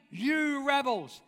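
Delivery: a slow, understated angry "You rebels"; a hint of Moses fed up with the people; mildly angry Moses. Moses scolding the people, only lightly angry. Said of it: "He's mad. He's angry".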